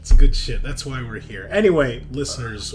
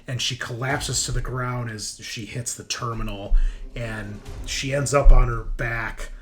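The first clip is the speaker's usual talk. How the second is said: dramatic, emphatic scene narration; game master narration; 5 semitones higher, 10 dB louder than usual. Acted. Game master describes a critical hit to the players, dramatic narration. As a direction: narrate the brutal blow with punchy emphasis.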